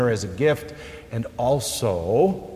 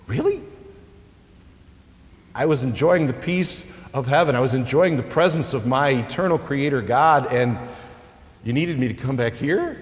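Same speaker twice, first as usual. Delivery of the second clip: incredulous; 2 semitones higher than usual. Pretend. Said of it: "any thought in the one resurrected".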